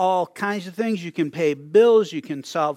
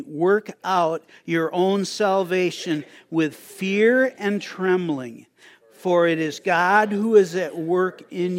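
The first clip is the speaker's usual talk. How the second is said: slow, measured scripture reading; scripture recitation; slower than usual. Acted. Pastor leads congregation in reciting the verse, slow measured recitation. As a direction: read it out slowly for others to join in.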